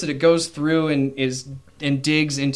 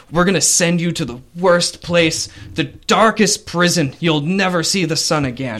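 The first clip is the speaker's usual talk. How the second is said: threatening captain; 4 semitones higher, 4 dB louder than usual. Acted. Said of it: "the captain of the guard says".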